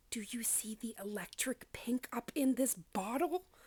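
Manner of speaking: hushed whisper. Showing a bottle from a beauty collection up close to viewers; whispering. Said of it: "I feel like I have to whisper for this one".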